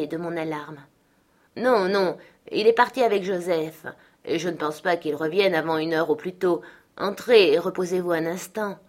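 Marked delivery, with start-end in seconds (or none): 1.6-8.8 voix de servante, un peu plus haute et affable; la femme accueille Hélène avec bonhomie; servante qui rassure. Acted. La servante reprend. (servante bienveillante, légèrement jouée)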